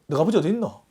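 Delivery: light Gyeongsang dialect rendering, said softly; 경상도 사투리로 가볍게. Retold or imitated. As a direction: toss off the question in Gyeongsang dialect. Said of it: "뭐 경상도 말로".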